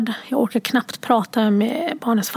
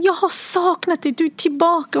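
put-on much higher child voice; happy little girl; 6 semitones higher than usual. Mother imitating her daughter welcoming her back, high child voice. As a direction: chirp it like a delighted five-year-old. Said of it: "Och sen så här".

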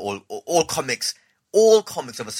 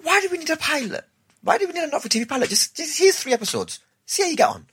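much higher, quick, carefree; breezy commissioner. Retold or imitated. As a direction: toss it off like it's no big deal. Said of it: "Haida was just like".

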